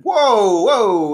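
loud, high calming protest. Acted. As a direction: break in on a squabble, high-pitched. Flump protests at being told off.

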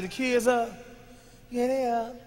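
very soft back-and-forth; hushed exchange. Retold or imitated. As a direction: check quietly so nobody else hears. Retold hushed exchange about kids.

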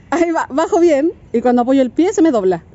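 words through real giggles; laughing. Real, not acted. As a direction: tell it while laughing. Laughing recounting her fall.

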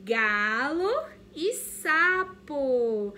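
loud, slow card reveal; teacher revealing cards in memory game. Shown as a demonstration. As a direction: announce the cards with suspense. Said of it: "Olha só".

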